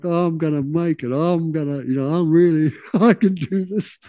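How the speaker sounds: a touch of swagger, laughing; mock confident. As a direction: imitate brash early optimism. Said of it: "And they talk like that".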